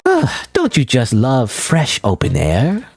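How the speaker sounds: slow, theatrical sighing clown; dramatic sigh. Acted. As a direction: savour the air dramatically. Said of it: "exhaled quite dramatically".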